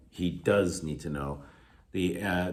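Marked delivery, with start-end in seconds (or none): 0.1-1.4 emphasis on "does"; stress on DOES. Shown as a demonstration. Teacher showing the helping verb, stress on "does". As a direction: lean on the word "does". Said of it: "provides emphasis to the sentence".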